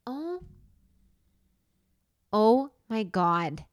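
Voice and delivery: stunned realisation. Real, not acted. Sudden realisation of movie meaning.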